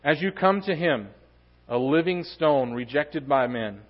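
measured reading, pausing after each phrase; scripture reading. Acted. Preacher reads First Peter on the living stone, scripture reading. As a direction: read the verse out deliberately to the congregation.

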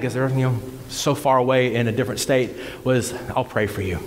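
subdued, low-pitched, sombre telling; real grief. Real, not acted. Preacher tells congregation of best friend's death, real subdued grief. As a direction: recount the loss low and heavily.

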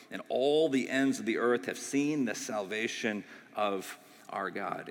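pastor reading Psalm ninety-eight to the church; scripture reading. Acted. Reads the psalm aloud.

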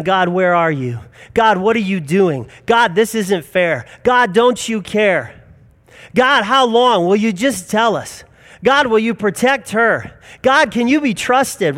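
pleading questions that build in pitch; anguished pleading. Retold or imitated. Family's anguished questions to God.

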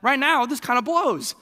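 a hint of a heartsick Jesus groaning; mock sad Jesus. Jesus at the tomb, lightly voiced and dejected. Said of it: "He's sad".

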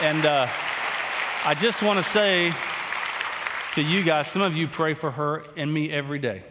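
choked up and tearful, voice breaking; fighting back tears while thanking them; crying. Real, not acted. Pastor thanking the praying church for his wife, tearfully. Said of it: "I don't know why I'm crying".

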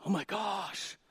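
high, breathless awestruck gasp; mock-terrified high voice; weird dude. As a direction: play the spooked youth-group kid seeing a demon in the smoke. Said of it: "weird dude that would always go".

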